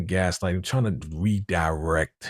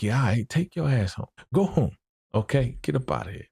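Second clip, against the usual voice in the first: dismissive William voice; 8 semitones higher than usual. Retold or imitated. William sending Geneva home.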